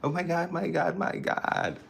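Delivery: high "Oh my God", then a breathless whisper; high gasp fading to a whisper; shocked. Real, not acted. Shocked at a vape.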